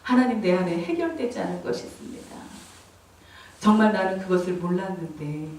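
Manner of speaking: subdued, softly voiced confession to God; confessional prayer. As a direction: pray it quietly, low and humble. (낮고 조용하게 고백하는 기도)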